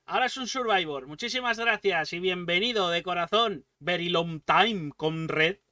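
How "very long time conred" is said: slow Spanglish in a mock Eastern European accent. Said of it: "ese acento de Europa del Este".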